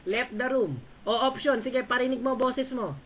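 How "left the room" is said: Left the room drawn out slowly through a laugh; mocking Left the room with a chuckle. Real, not acted.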